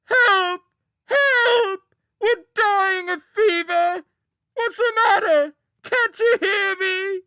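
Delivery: child bellowing a fake fever plea; piercing howl. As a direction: scream it across the fortress. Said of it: "a howl like an injured wolf".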